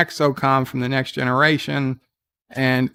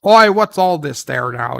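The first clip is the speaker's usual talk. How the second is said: imitating a British bobby in a British accent, a touch louder; hammed-up British accent; 4 semitones higher, 5 dB louder than usual. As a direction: do a quick mock British copper accent. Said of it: "in British voice".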